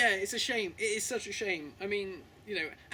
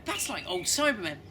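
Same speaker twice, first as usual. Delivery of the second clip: rising, louder indignant fan rant; an incredulous fan, louder and higher by the end; mock fan outrage; 3 semitones higher, 7 dB louder than usual. Fan watching the show, getting louder with disbelief. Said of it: "you'd be like".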